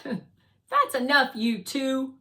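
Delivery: loud, slow telling-off; firm interruption. Acted. Resilience stops Guardian and Fly bickering, firm and loud. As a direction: cut off the squabble firmly.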